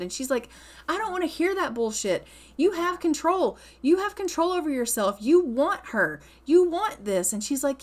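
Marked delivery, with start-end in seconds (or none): 0.9-7.3 angry Marisol. Retold or imitated. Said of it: "Marisol is pissed".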